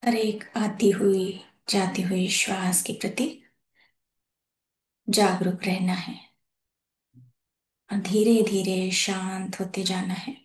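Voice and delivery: calm, measured phrases with long pauses; guided meditation. Real, not acted. Host leading masters to settle into their breath, guided meditation. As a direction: guide them gently into breath awareness, unhurried.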